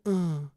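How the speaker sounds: small grunt to sell the fake; deking effort noise. Shown as a demonstration. Player faking on the goalie, little effort grunt. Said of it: "That's how you sell it".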